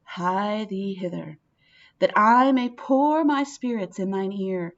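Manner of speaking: reads Lady Macbeth's lines with measured weight; dramatic reading. Acted. Teacher reading the soliloquy to the class, measured and dramatic. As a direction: let each clause land.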